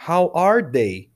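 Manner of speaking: slow, clearly spaced words; teacher drilling slowly; slow teaching model. Shown as a demonstration.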